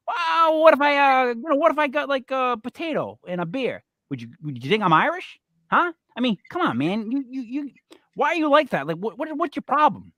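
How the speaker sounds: mock outrage. Customer rant at its peak.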